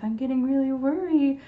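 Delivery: animated storytelling voice, worried to happy; expressive worried or happy. Shown as a demonstration. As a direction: play it big for the kids. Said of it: "sometimes I do facial expressions".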